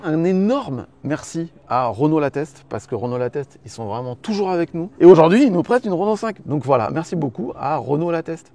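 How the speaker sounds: polished TV host delivery; TV presenter voice. Real, not acted. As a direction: speak like a television presenter thanking sponsors. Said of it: "j'ai une voix de présentateur télé".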